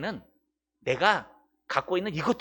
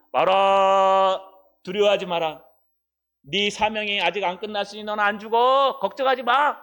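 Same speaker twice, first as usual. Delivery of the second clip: angel reassuring; 4 dB louder than usual. Acted. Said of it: "천사가 나타나갖고요".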